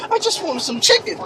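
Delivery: high, small tearful plea; mock crying. Customer pleads with cashier for chicken, mock crying. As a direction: whimper it like a hammed-up crybaby. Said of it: "I started crying".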